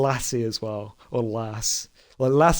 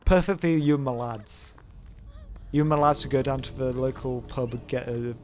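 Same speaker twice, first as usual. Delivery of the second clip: mock British lad accent; 3 semitones higher than usual. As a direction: play a British lad off to the pub. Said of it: "Just British people things".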